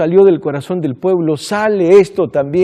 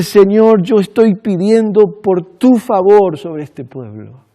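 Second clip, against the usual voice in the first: imploring. Retold or imitated. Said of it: "y él implorando".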